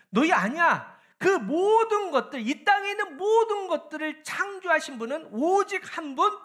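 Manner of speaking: high, loud, commanding preacher's voice; God exhorting the people. Acted. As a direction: press each phrase out, drawing out key words. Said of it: "정확하게 뭘 얘기하냐". (백성을 꾸짖듯 높고 힘차게 외치는 하나님 말씀)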